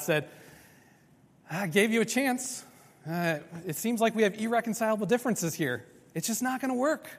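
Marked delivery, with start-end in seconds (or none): 1.5-7.1 mock weary God calling it quits, higher; a hint of a fed-up God giving up; dismissive God. Preacher voicing God quitting on sinners, lightly.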